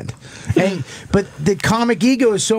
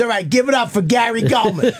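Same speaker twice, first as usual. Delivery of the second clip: a hint of a hammed-up announcer, pitched up; mock MC intro; 6 semitones higher than usual. Cop brings the comic onstage in a mock announcer voice. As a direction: sing out the introduction like a bar MC.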